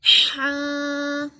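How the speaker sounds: हा breathed from mid-throat; strong throat haa; throaty haa. Shown as a demonstration. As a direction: push हा from the middle of the throat. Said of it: "तजवीद का पढ़ने का तरीका है".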